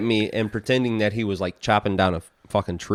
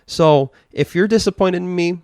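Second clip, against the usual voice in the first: stern lecture; 2 semitones higher than usual. Retold or imitated. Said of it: "I'm like".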